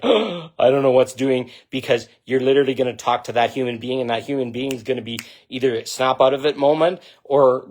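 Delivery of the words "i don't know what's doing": slow, dazed voice of someone caught out; stunned confused person. Pretend. Speaker imagining a called-out person's reply, dazed and slow. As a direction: play someone stopped in their tracks, bewildered. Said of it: "they will just be like".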